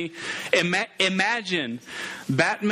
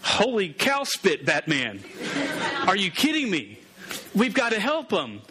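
Robin. Acted. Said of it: "and Robin, what would he say?".

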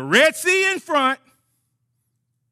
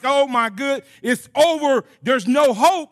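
high, loud hammed-up wail of doom; mock despair; 3 semitones higher, 4 dB louder, slower than usual. God mimics Moses' panic, mock despairing. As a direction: overplay the hopeless whine. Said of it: "crying out to me like".

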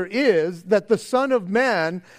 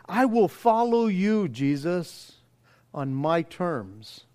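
lightly voiced, bargaining with Jesus; slow, hedging prayer that drags out the terms; self-serving believer; 2 semitones lower, 4 dB quieter, slower than usual. Believer quietly bargaining with Jesus, slow and hedging. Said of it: "it sounds more like this".

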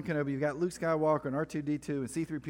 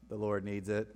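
mock Jedi mind trick; 5 semitones lower than usual. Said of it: "they're like".

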